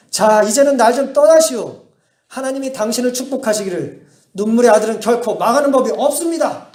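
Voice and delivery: mildly fed-up bishop shooing away a pleading mother; irritated brush-off. Retold or imitated. Bishop tells begging mother to leave, irritated. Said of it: "짜증스러운 듯 이렇게".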